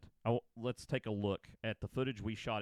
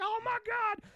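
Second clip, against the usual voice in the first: high, louder dismay; horrified; 6 dB louder than usual. Retold or imitated. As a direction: realize the blunder, aghast. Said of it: "I was like".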